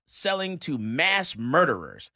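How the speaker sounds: "mass murderers" slowed and punched; all-caps emphasis. Acted. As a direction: lean hard and slowly on "mass murderers". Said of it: "In all caps".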